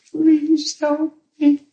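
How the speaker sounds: high, slow, tearful begging; imitated crying plea. Woman in pain begging the minister, imitated tearful plea. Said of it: "She just cried, and she said".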